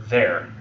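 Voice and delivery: there as one closed-off syllable; final quality. Shown as a demonstration. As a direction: land on there with a sense of finality. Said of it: "almost a final quality to it".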